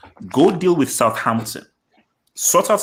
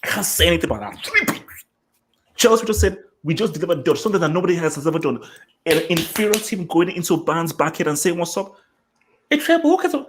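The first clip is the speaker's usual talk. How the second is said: 1 excited rant; 5 semitones higher, faster than usual. Real, not acted. Excited rant, very high pitch.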